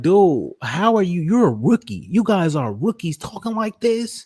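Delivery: high, laughing disbelief; incredulous high. Real, not acted. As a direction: squeal in disbelief at the rookies. Laughing disbelief at rookie's boasting.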